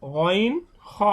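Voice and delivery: "গইন হ" drawn from the throat right by the mouth; upper-throat articulation. Shown as a demonstration. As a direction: demonstrate "গইন হ" at the top end of the throat. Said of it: "মুখে খুব নিকটস্থ কণ্ঠনালীর যে স্থানটা". (মুখের কাছের কণ্ঠনালী থেকে "গইন হ")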